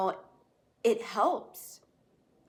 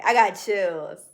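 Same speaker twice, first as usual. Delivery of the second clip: moved, chills; 7 dB louder than usual. Real, not acted.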